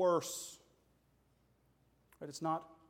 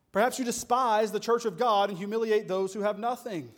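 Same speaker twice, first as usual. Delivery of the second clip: preacher's disgusted rebuke; 4 dB louder than usual. Retold or imitated. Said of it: "it's a show of disgust".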